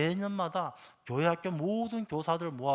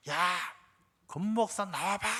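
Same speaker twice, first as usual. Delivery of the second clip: put-on half-raised drunken yell; retold drunken shouting; 3 semitones higher than usual. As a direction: imitate a drunk man calling someone out. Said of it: "어떤 밖에서 막 소리 질러요".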